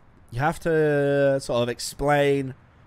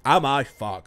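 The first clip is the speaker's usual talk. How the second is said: louder, mock-indignant retort; punchline repeat; 3 semitones higher, 5 dB louder, slower than usual. Real, not acted. Streamer repeats his joke to the viewers, louder and mock-indignant. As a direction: throw the punchline out to the chat.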